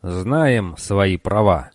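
slow, grating robot voice; grinding robot voice. Acted. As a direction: grate it out like rusty metal. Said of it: "заскрежетал он".

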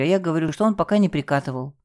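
ordinary delivery

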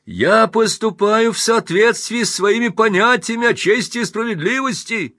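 high, loud defiant speech; Pinsky defying the crowd. Acted. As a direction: stand your ground against the hecklers. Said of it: "вызывающе".

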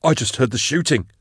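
reply with a touch of a moan. A narrator's reading. Shaken huntsman answering about the shooting, mildly moaned. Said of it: "Lucin moaned".

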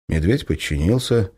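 ordinary delivery, nothing marked

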